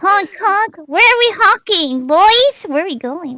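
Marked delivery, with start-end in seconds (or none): 0.0-0.8 laughing clown honks; silly clown. Pretend. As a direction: honk through a giggle. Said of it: "down to clown".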